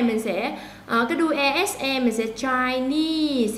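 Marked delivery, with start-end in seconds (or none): 2.3-3.5 "Chinese" with the stress on "-nese"; stress on second syllable. Shown as a demonstration. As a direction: lean on the final "-nese" of "Chinese". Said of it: "thì mình nhấn ngay chỗ nese".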